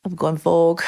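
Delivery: Vogue said in a northern English accent; flat northern vowel in Vogue. Shown as a demonstration. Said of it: "That's my northern accent".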